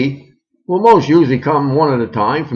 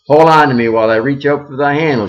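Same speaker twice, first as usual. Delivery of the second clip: shrieking; 2 semitones higher, 5 dB louder than usual. Acted. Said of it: "shrieks the other".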